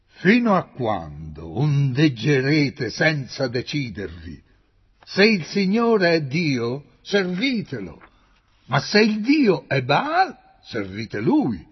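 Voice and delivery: loud, rising challenge to the crowd; thundering prophet, slowing at the end; fiery preaching. A narrator's reading. Prophet addressing the assembled people.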